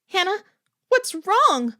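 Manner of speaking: high, loud urgent question; alarmed shout. A narrator's reading. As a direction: call out to her in alarm. Alarmed roommate calls to screaming girl.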